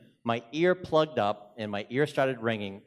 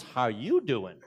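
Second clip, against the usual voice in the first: Boston accent reply, stress on you; much slower than usual. Shown as a demonstration. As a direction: answer back with "How YOU doing?". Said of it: "the response is".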